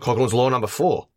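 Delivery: put-on Aussie announcement; Australian accent. Co-host announces a drinking-game rule, mock Australian accent. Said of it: "in the Australian accent?".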